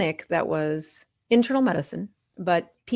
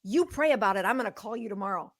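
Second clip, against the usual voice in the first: a higher-pitched, put-on thick Southern accent, retold; 3 semitones higher, faster than usual. Church volunteer lady phoning the doctor, imitated thick Southern accent. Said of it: "this thick Southern accent".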